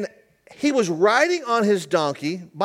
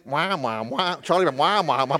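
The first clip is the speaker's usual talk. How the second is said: Charlie Brown wah wah; 4 semitones lower than usual. Retold or imitated. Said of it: "what your pet is hearing from you".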